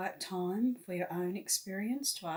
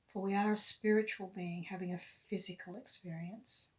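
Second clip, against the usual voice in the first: guided meditation. Real, not acted. Guide leading listeners to love and light, meditative. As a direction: lead them inward unhurriedly, phrase by phrase.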